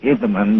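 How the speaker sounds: "Hesseman" said the German way, in three syllables; German pronunciation. Shown as a demonstration. Guest showing host his name, "Hesseman" the German way. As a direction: give "Hesseman" its German sound, with a middle vowel. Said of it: "The German way".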